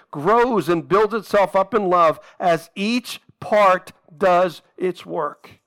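deliberate reading of the Bible verse; scripture reading. Acted. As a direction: read the verse with weight, slowly in places.

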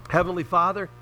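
earnest spoken prayer to God. Real, not acted. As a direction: pray sincerely for the congregation. Opening prayer before the sermon.

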